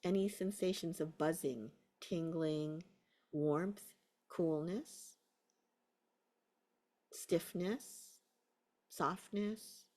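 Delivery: unhurried guiding voice with long pauses; guided meditation. Real, not acted. Teacher settling a class into a body scan, guided meditation. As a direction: ease them into a body scan.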